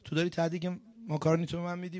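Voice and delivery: retold disbelief, checking on a brother; astonished brother.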